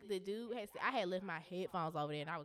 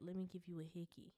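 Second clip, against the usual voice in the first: retold whisper; 2 semitones lower, 9 dB quieter than usual. Retelling a guy's hickey request in her ear, mock whisper. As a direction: softly imitate murmuring into someone's ear. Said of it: "he gonna whisper in my ear".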